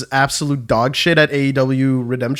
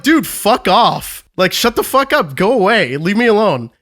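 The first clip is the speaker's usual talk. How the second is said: retold telling-off; 4 semitones higher than usual. Retelling telling the aggressor off.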